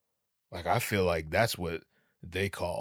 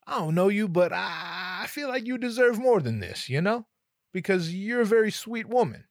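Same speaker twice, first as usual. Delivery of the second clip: high, pleading sincerity; heartfelt plea; 11 semitones higher, 4 dB louder than usual. Retold or imitated. Customer telling the clerk she deserves more, heartfelt plea. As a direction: plead earnestly in a raised voice.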